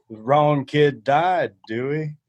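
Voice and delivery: very slow, dragged-out dad line; slow deadpan movie dad; movie dad quote. Retold or imitated. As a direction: quote the dad slowly and flatly.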